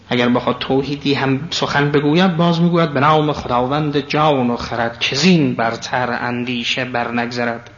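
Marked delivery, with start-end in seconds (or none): 2.9-7.7 stately recital of epic verse, slowing towards the end; majestic verse recitation. Acted. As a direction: recite it with grandeur, drawing out the last line. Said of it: "شکوه است، صلابت است".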